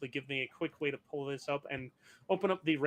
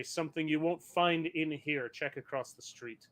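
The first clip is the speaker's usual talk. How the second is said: deep booming voice; 4 dB quieter than usual. Acted. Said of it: "a deep booming voice say".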